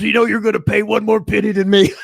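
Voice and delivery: loud, high sing-song taunt; mock Randy. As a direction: tease like a gloating rival.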